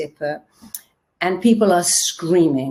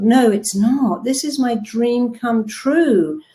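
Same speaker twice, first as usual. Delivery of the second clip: slow, higher, insisting each word; firm correction, slow and higher; 4 semitones higher, slower than usual. Retold or imitated. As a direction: correct yourself firmly and slowly. Correcting her own complaint.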